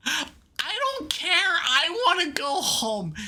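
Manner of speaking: slow whining drawl; whiny. Acted. Bored character whining to leave, slow whine.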